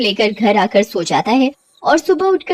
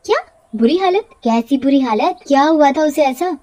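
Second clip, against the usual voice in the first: rising, startled questions; a touch of alarm; 3 semitones higher than usual. Acted. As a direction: sound shaken by the news. Bela shocked by news.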